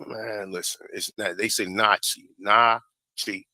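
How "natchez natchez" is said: Nazi said as NAH-chee; own pronunciation. Shown as a demonstration. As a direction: say "Nazi" as NAH-chee, second time drawn apart. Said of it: "That's how I say it".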